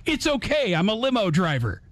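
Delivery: brightly reassure, like a clueless hero; Jim Carrey bit. Retold or imitated. Limo driver brushing off the gate staff, goofy and bright. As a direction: pitch jumps up on the opening, then eases back. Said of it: "and says".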